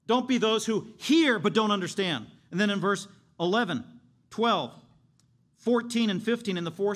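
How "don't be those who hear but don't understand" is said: usual speaking voice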